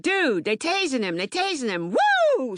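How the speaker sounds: voicing a friend calling him out, rising to a high woo; excited shout of alarm; retold excited call. Friend waking him to see the police, excited.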